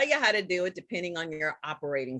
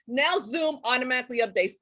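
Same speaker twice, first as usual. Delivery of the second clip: excited; 3 semitones higher, faster than usual. Real, not acted. Celebrating the news.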